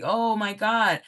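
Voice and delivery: mock lament. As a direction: imitate a jilted gold-digger wailing, half in jest. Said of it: "they're crying over you".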